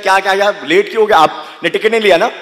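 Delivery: loud fast interrogation, speeding up; the ticket checker grilling him, quickly; suspicious checker. Retold or imitated. Ticket checker interrogates the commuter, loud and fast. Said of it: "he's like".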